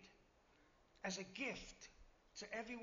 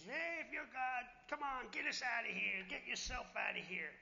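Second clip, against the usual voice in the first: mocking thief; 3 semitones higher than usual. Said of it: "was still mocking Jesus".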